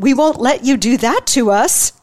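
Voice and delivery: lightly voiced Hillary, a hint of nervous bravado; nervous joke. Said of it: "Hillary laughed nervously and said".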